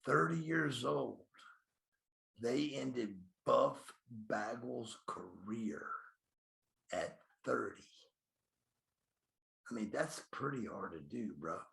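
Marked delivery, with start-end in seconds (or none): 2.4-7.8 slow, voice catching on career; voice breaking. Real, not acted. Wrestler recalling his firing, slow and voice breaking. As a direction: let the hurt break through, slowly.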